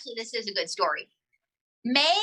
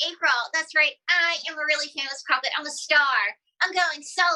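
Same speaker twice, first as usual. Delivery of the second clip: lightly voiced puppet, pitched up a little; puppet star; 3 semitones higher than usual. Puppet boasting about a solo career, lightly put-on higher voice. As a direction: play a self-important puppet.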